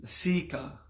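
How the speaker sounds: laSIka with the SI stressed and long; short first A, long SEE in lasika; accent on the I. Shown as a demonstration. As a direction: lean on the middle syllable of lasika. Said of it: "depending which one has the accent".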